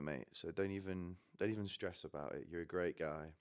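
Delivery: soft, reassuring pep talk to a mate; gently bolster a heartbroken friend; quiet, mildly encouraging retelling; geeing him up. Retold or imitated. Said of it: "I'm trying to G him up".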